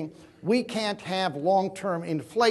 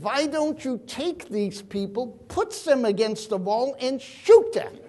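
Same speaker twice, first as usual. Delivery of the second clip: put-on Austrian accent; 4 semitones higher than usual. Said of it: "in that Austrian accent".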